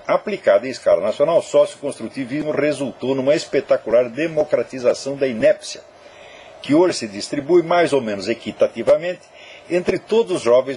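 measured, emphatic read of a written text; reading aloud. A narrator's reading. Host reading his essay's ending to listeners, declaimed evenly. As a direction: deliver it as polished written prose, phrase by phrase.

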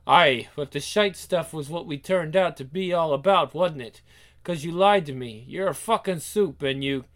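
lightly acted Scottish reproach; mildly bitter Scot; accusing Scotsman. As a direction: throw the blame back, Scottish-style. Reads Scottish character's accusation.

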